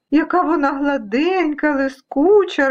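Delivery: happy storybook oohing; delighted dust specks. Acted. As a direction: marvel with childlike delight. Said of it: "раділи пилинки".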